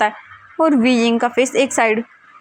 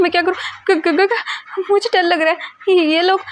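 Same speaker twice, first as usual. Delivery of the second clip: higher, stammering frightened voice; panicked, tripping over the words; scared; 7 semitones higher than usual. Acted. Weijing alone and chased, stammering in fear. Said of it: "वीजिंग को डर लग रहा था".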